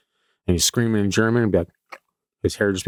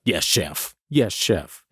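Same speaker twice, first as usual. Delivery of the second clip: imitating kitchen staff; 3 semitones lower, much slower than usual. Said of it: "everyone's like".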